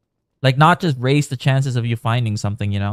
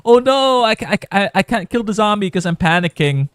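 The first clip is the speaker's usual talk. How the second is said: high, loud panicked squeal; frantic stammering panic; panicking; 8 semitones higher, 4 dB louder than usual. Pretend. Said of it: "they're like".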